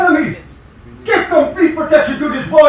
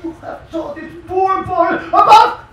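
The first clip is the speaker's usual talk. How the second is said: roaring with rage, higher and louder; furious shout; 6 semitones higher, 3 dB louder than usual. Acted. The king berates the Brahmin teachers for teaching Vishnu, in a furious shout. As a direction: bellow at them in outrage, fast and loud.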